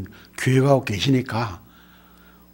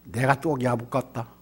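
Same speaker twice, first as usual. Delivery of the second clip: slow recitation; 4 semitones lower, 7 dB quieter than usual. Shown as a demonstration. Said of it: "좀 미안하지만 한번 할까요?".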